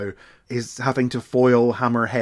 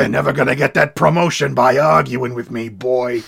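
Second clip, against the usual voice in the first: gruff chief; 6 dB louder than usual. Retold or imitated. Chief scolding officer.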